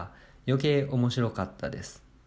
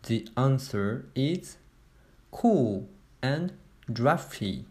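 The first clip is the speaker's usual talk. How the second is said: slow answer reveal; much slower than usual. Acted.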